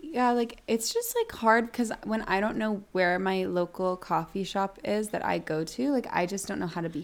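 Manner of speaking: toying with a vapid tone; airy put-on voice. Cohost plays along in a light dreamy influencer voice. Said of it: "Take away that voice".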